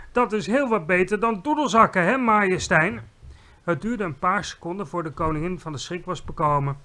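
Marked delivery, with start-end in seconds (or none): 0.1-3.0 high, loud boast; exuberant shouting. A narrator's reading. Giant boasts to the queen, shouting exuberantly. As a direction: keep shouting with delight. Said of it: "schreeuwde de G V R".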